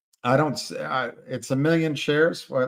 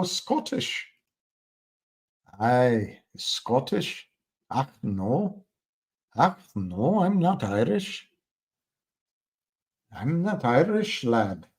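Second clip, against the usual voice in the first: badly faked Scottish lilt, pitched up in places; bad Scottish accent. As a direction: have a clumsy go at a Scottish accent. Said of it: "I can't do the accent".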